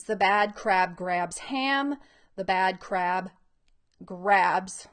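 slow, emphatic picture-book reading; reading to children. Acted. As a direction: read it out word by word for young readers. Reads book aloud.

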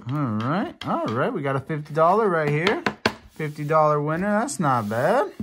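high, fast, loud excited burst; thrilled at a fifty dollar win; shrieking jackpot winner. Real, not acted. Winning fifty dollars on a scratch-off.

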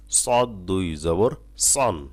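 সদ দুই জবর সন slow, with সদ heavy and thick; thick sad. Shown as a demonstration. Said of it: "সদ মোটা হবে".

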